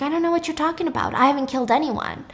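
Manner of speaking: put-on quick, flustered old woman; rushed nervous denial. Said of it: "Missus Brixel is like".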